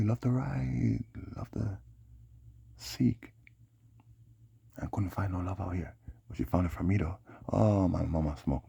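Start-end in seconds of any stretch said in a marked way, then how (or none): 0.0-3.3 whisper. Real, not acted. Voice drops to whisper.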